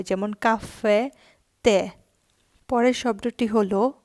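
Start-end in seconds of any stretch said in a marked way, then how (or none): 0.3-1.9 কাফে and তে with the last vowel hit harder and held; stressed final e. Shown as a demonstration. Teacher stressing the accented final e of কাফে and তে for learners. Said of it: "একটু জোর দিয়ে করতে হবে".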